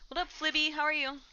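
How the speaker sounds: high, chirpy greeting; high-pitched hello to an animal; pet-talk greeting. Real, not acted.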